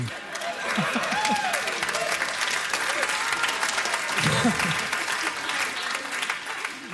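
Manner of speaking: squealing laugh, very high; high-pitched laugh. Real, not acted. Big laugh sound.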